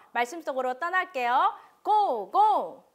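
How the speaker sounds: loud cheery countdown shout; booming kids show opener. Acted. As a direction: pump the kids up, big and loud. Kids show host launches segment. (신나게 외치는 어린이 방송 오프닝)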